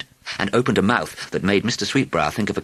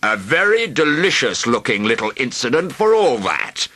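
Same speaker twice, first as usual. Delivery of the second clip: a lightly voiced greedy dragon, amused; 7 semitones higher, 4 dB louder than usual. A narrator's reading. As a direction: savour the word like a hungry dragon.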